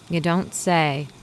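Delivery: slow, dry sarcastic remark. Acted. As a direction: drag it out with mock disbelief. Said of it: "I know sarcasm when I hear it".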